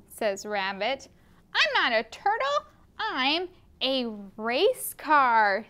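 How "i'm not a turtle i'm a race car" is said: race car character voice. Acted. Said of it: "says Race Car".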